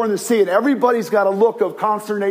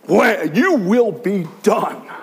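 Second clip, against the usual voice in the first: commanding rebuke; much slower than usual. Retold or imitated. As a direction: rebuke the storm once more. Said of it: "Like that".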